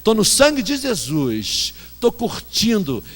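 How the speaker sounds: slow, laid-back mimicry of a hip believer; imitating Baby's drawl. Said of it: "porque ela fala assim".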